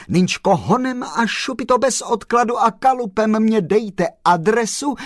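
loud, high, breakneck enthusiasm; excited outburst. A narrator's reading. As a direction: demand it urgently and joyfully. Postman excitedly demands the address.

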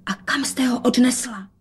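urgent whispered question. A narrator's reading. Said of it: "dodala šeptem". (šeptaná otázka)

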